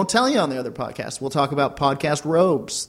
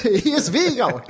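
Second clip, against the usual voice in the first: doting grandparent; 7 semitones higher than usual. Acted. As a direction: play it as the sweet old granny. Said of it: "That was pretty good, right?".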